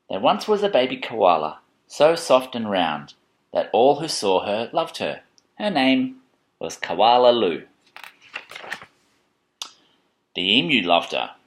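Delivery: measured picture-book narration; reading to children. A narrator's reading.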